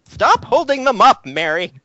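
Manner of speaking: high, slow fussy professor snapping at a student; the professor telling a student off, irritated and high. Acted. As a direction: scold her in a reedy old professor's voice. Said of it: "the professor is now very irritated".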